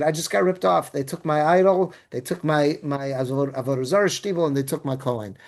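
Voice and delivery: teacher voicing Micha, understated and resigned; dejected. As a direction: mutter the loss mildly, giving up.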